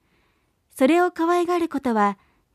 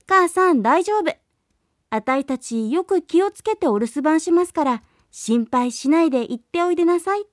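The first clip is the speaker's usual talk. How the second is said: put-on young goats in chorus; 3 semitones higher than usual. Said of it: "子供ヤギたちは声を揃えて".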